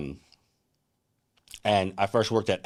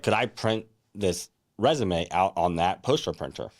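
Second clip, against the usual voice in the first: slow, spelled-out repeat of the request; slower repeat. Retold or imitated. Repeating the request to a confused print clerk, slow and deliberate. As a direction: say it again slowly so they get it.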